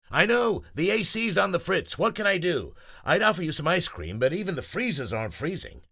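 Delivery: high, loud, fast fretting voice; flustered shopkeeper. Acted. Uncle Jerry explaining broken freezers, high and flustered. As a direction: rush the excuses out.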